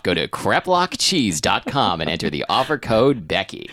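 smooth sales ad copy voice; ad read voice. Shown as a demonstration. Improvising an ad read on request, in sales ad copy voice. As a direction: sell it like a sponsor read. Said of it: "sales ad copy voice".

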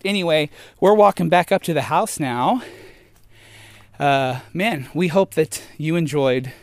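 panting after the uphill walk; out of breath. Real, not acted. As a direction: talk between breaths, winded. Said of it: "Sorry, I'm so out of breath".

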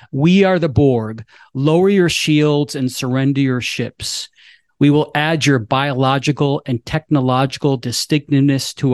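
lightly voiced, even mechanical cyborg; a hint of a robotic drone announcement; Borg cyborg voice. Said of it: "cyborg vo-, voice".

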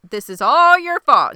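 loud, high retold blame; acted angry accusation. Shauna blames Jackie in their fight, acted angry accusation.

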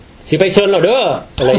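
southern Isan accent with stretched, singsong syllables. Shown as a demonstration. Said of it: "จะไปเที่ยวก็แบบ".

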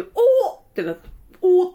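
low, laughing mock exclamation; a half-laughed low "oh!". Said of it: "ちょっと低い声でさ".

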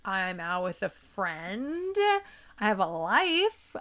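slow, pointed, sarcastic reply; snarky. Retold or imitated. Daughter snarks back at her stressed mom, slow and pointed. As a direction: drag it out to make a point. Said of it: "for being a snarky bitch".

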